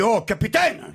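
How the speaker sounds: punchline through a laugh; castaway hoping the captain brought something else; laughing delivery. Acted. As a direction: chuckle out the last line.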